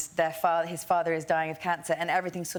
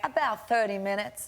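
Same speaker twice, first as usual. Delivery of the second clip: put-on Southern accent; 3 semitones higher than usual. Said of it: "You're literally doing the accent of the play".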